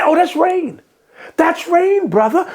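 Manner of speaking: high mock-innocent "oh, that's rain"; mock innocent excuse. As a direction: play dumb, mocking the liar. Mocking quote of a disrespectful liar.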